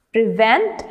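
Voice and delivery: "prevent" with the weight on VENT; stress on second syllable. Shown as a demonstration. Teacher reading words to students, "prevent" stressed on VENT. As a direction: say "prevent" as pre-VENT, rising at the end. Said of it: "stress on the second syllable".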